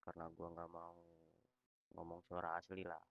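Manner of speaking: robot voice, text-to-speech reading; flat synthetic robot voice; social media tts voice. Real, not acted. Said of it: "gue pakai suara robot".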